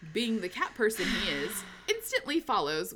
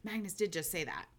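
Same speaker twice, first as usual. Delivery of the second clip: whispered realization; 3 semitones lower, 8 dB quieter than usual. Retold or imitated. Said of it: "He's like".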